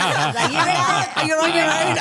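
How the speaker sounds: embarrassed bail-out. Retold or imitated. Embarrassed son abandons dad's argument, loud laughing bail-out. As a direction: bail out loudly through laughter. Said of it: "I'd be so embarrassed".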